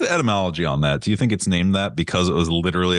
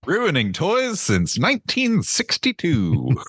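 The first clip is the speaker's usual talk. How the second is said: ad slogan voice; 9 semitones higher than usual. Pretend. Mock slogan for batteries.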